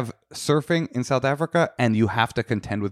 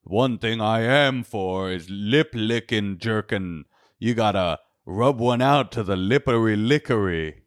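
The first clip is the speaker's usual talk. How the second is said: God's voice, hammed-up; slower than usual. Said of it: "God's like".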